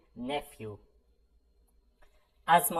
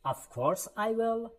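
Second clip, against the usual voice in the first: high drill line; 8 semitones higher, much slower than usual. Shown as a demonstration. Drill of reply phrases.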